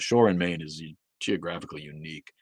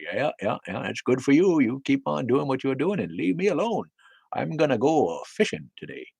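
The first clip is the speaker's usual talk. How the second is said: higher-pitched, mock-agreeable brush-off; dismissive brush-off; 7 semitones higher, 3 dB louder than usual. Imitating an old-time Mainer waving off a believer, dismissive. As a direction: humour them so they leave you be.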